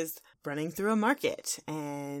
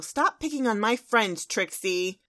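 louder, higher scolding; Twilight Sparkle; 4 semitones higher, 5 dB louder than usual. Acted. Pony defending friends from rival, raised-voice scolding. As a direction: stand up for friends firmly, lightly acted. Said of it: "Twilight Sparkle".

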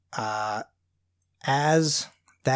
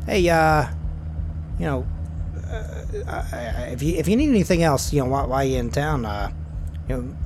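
put-on hesitant first try at Terry's accent; halting, off-target character accent; wrong accent for Terry. Driver Terry dropping Garth off, in a mistaken accent. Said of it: "I'm doing the wrong accent".

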